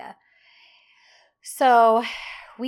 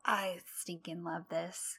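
whispered, softer fan gush; 3 semitones lower, 9 dB quieter than usual. Real, not acted. Fan whispering to co-host about a beloved scene, hushed and gushing. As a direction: breathe it out like a secret delight.

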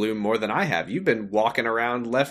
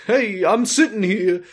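honking voice; 9 semitones higher, 4 dB louder than usual. Pretend. Honking voice returns.

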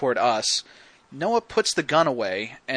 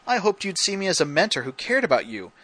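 mock monologue building to a louder finish; retold yell; 3 semitones higher, 4 dB louder than usual. Host acts Noah turning on Garrett, building mock yell. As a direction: build the imitated speech up, hitting the end harder. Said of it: "like, yells it at Garrett".

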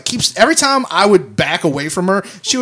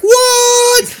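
baffled what. Retold or imitated. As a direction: squawk it in disbelief. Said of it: "And I'm like".

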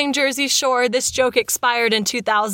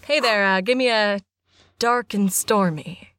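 bar customer; 5 semitones lower, slower than usual. Pretend. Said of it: "you be the person coming into the bar".

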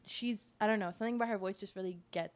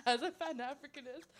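laughing; 2 semitones higher, 6 dB louder than usual. Pretend. Laughing mock preacher.

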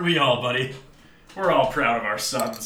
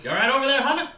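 mock caring call; 11 semitones higher, 3 dB louder, much faster than usual. Calling to Hunter.

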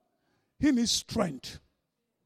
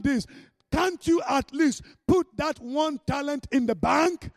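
scolding master. Acted. Master scolding the lazy servant.

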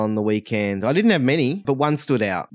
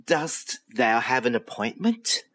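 angel receptionist; slower than usual. Acted. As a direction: greet them like a heavenly clerk. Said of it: "what could only be described as an angel".

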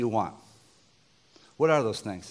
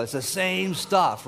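mock complaint; 5 semitones higher, slower than usual. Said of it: "sometimes you go".

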